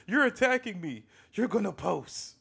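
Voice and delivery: mock shrill Karen. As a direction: wail her lines like a panicked Karen. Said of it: "She keeps saying".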